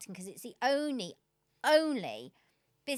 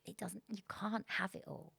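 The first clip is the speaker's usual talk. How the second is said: quoting her husband calmly and much softer; calm quote; 6 dB quieter than usual. Retold or imitated. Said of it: "he said really calmly".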